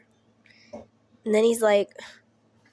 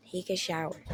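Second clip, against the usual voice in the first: softer, flat repeat of Take a shower; stunned quiet echo; 4 semitones lower, 11 dB quieter, faster than usual. Retold or imitated. Telling the story, echoing the instruction quietly in disbelief.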